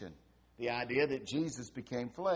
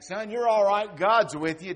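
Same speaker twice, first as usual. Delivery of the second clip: louder, higher reassuring call; father shouting back; 5 semitones higher, 11 dB louder than usual. Retold or imitated. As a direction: call up to the boy upstairs. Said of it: "Dad shouted back".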